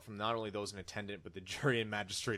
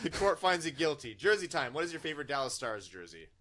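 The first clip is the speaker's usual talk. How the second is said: higher, louder pompous judge; mock verdict; 5 semitones higher, 6 dB louder than usual. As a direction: pronounce the verdict grandly.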